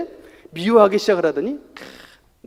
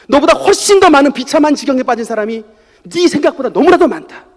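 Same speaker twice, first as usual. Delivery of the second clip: a hint of God speaking, rising to loud preaching; God's answer; 7 dB louder than usual. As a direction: speak as God to a son, growing firm. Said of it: "하나님께서 저에게 탁 진짜 응답을". (하나님의 음성으로 아들을 꾸짖듯 타이르며)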